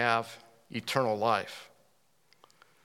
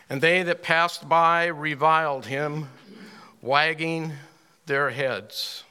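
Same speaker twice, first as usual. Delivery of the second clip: slow, emphatic Bible reading; measured, declaimed scripture; 2 semitones higher, 3 dB louder, slower than usual. Acted. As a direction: read the verse out to a congregation, word by word. Reads scripture aloud to congregation.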